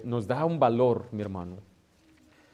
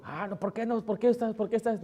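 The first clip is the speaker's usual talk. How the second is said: mock protest; 8 semitones higher than usual. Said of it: "Yo no estoy diciendo".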